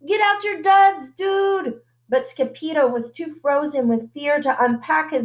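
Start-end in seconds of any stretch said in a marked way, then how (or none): 0.0-1.8 high, excited urging; very high, excited dude voice. A narrator's reading. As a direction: hurry the friend along. Don Diego urges Scipio.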